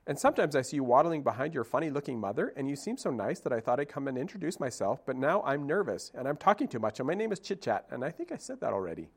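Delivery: fast, breathless rambling squirrel; a lightly voiced squirrel rushing her words; nervous chatterbox. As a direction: gabble on without stopping for air.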